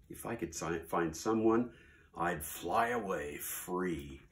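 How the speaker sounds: lightly voiced bored, whiny bird; lazy bird Maisie. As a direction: complain like a lazy bird stuck on a nest. Maisie complains lazily.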